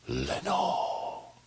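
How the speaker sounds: breathy whispered name. Acted. Alone in darkness, he whispers his lost love's name. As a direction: whisper her name into the dark. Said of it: "the whispered word".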